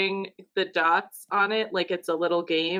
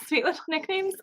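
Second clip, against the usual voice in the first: laughing tease; 10 semitones higher than usual. Real, not acted. Teasing the nickname.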